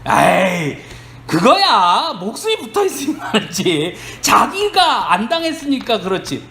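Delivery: dismissive retort as a retold Satan; lightly acted scoff from Satan. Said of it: "그러니까 사단이 뭐라 그래요?". (에이 하며 대꾸하는 사단 흉내)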